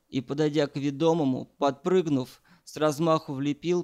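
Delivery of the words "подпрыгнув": plain reading voice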